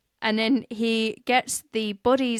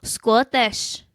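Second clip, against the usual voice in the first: a put-on Scottish accent, slightly louder; bad Scottish accent; 3 dB louder than usual. History podcaster slipping into a bad Scottish accent. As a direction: try a clumsy Scottish accent. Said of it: "That wasn't great".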